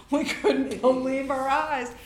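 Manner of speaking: loud, high, slow amazement; amazed. Real, not acted. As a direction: marvel at it, stretching the words. Astonishment at bribe-free passage.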